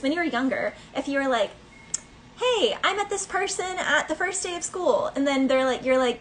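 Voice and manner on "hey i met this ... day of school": put-on excited kid. Child voiced in story.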